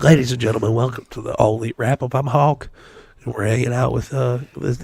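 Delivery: lightly voiced Southern Hawk, hosting the show; Hawk impression. Hosting the wrap-up as Hawk, in a mild Southern accent. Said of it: "my Hawk impression went so, like, weird Southern".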